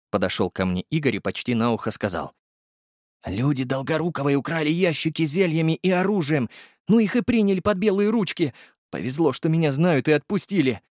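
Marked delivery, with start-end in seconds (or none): 3.3-10.8 high, gossipy driver voice; the driver Igor bringing Borya the news, high and chatty; chatty young driver. Acted. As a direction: rattle it off, pitched high. Igor speaks close to ear.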